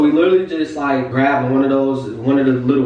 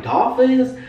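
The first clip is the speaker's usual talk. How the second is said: high-pitched retold disbelief; astonished; 9 semitones higher than usual. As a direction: replay the surprise, voice jumping up. Retold astonishment at seeing dolphins.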